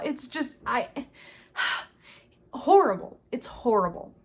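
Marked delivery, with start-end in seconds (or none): 2.5-3.2 exasperated sigh. Real, not acted. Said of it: "it makes me angry".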